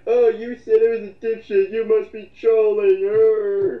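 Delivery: mocking sarcasm. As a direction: play a fake shocked accuser for laughs. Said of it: "making a joke about it".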